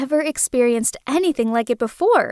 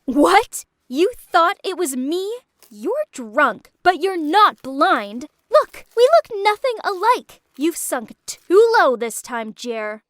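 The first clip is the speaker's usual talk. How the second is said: angry; 4 semitones higher than usual. Acted. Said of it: "Then Naomi interrupted".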